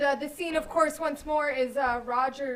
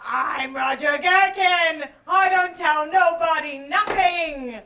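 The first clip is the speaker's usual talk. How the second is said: loud character voice; 5 dB louder than usual. Acted. Improv character announces himself.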